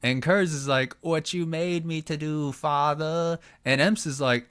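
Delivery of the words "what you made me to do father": a hint of a creepy, higher voice; lightly voiced eerie son. Son to his father, a light creepy voice. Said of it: "Why are you so fucking creepy".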